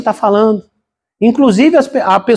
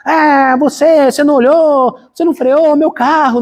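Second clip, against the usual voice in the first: pretend angry cursing; 6 semitones higher than usual. Pastor imagines cursing at the driver in front of his sons, mock angry. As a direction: act out yelling at the driver who hit you. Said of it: "Se eu saísse de lá xingando, brigando".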